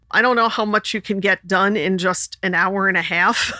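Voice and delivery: ordinary delivery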